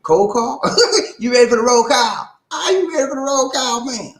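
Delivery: high shouted roll call; hype call. Acted.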